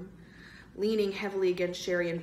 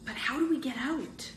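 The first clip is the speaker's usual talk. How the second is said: breathless; 7 semitones higher than usual. Acted. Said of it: "Bird asked breathlessly".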